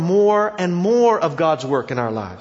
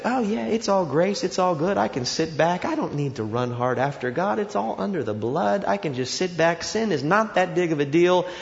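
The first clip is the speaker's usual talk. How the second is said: mock complacency. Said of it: "is such that you say".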